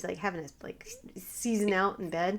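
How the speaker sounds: real whisper, voiceless and soft. Real, not acted. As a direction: whispers it under her breath like a secret. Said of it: "whispered aside".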